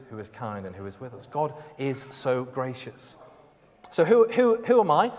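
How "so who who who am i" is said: emphatic question. Acted. Setting up his Scouse bit.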